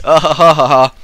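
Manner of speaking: forced, acted ha-ha laugh; fake laugh. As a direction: laugh on purpose, unconvincingly. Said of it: "Quick mind act laugh".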